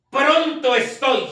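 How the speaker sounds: "pronto estoy"를 천천히, 한 단어씩 힘주어; "pronto"를 높게 강조하고 "estoy"는 천천히 늘여서; stressed slow quote. Shown as a demonstration. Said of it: "esa palabra que dice ahí".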